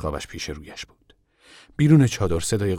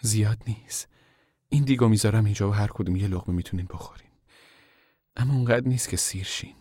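humble; 3 semitones higher than usual. Acted. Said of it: "بعد با فروتنی گفت".

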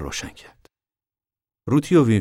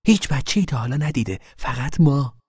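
haughty; 7 semitones higher than usual. Acted. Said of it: "با فیس و افاده گفت".

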